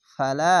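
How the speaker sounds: "ফালা" with "লা" held long; drawn-out vowel. Shown as a demonstration. Teacher showing alif lengthening, last vowel drawn out. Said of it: "যাবার পাশে খালি আলিফ এক আলিফ টেনে পড়বেন".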